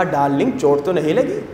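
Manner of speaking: soft, low, tender husband imitation; lightly acted sweet-talk, voice dropped; retold loving concern. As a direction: gently mimic a doting newlywed husband. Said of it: "بڑے پیار سے کہا".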